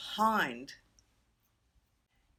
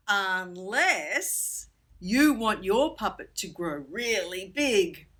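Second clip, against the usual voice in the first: playful slow tease; slower than usual. Pretend. Teacher teases a shadow trick.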